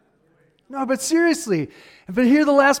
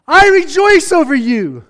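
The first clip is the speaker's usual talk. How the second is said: "I rejoice over you" said higher and louder, exulting; exultant; 5 semitones higher, 5 dB louder than usual. Acted. Preacher voicing God rejoicing a second time, exultant and louder. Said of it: "Once again, he says".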